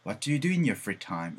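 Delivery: slowed, carefully linked; slow model sentence. Shown as a demonstration. Teacher repeating the model sentence slowly. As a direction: read it out slowly and clearly. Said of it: "이거를 더 많이 보실 수가 있어요".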